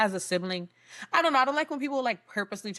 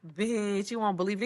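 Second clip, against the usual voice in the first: understated, matter-of-fact delivery; low-key remark. Shown as a demonstration. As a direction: say it casually in a normal register. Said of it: "it's how you say it".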